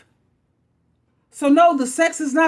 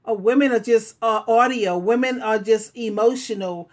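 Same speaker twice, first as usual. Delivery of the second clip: mocking men; 3 semitones lower than usual. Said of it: "you men automatically insinuate or assume".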